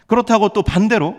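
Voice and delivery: high, insistent pulpit delivery; emphatic preaching. Real, not acted. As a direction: press the counterargument on the congregation. Preacher presses the counterpoint.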